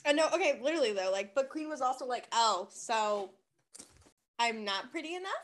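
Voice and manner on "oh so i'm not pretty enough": lower, softer mock-hurt question; slighted. Queen reacting to being called not hot enough, slighted. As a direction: trail down quietly, lightly wounded.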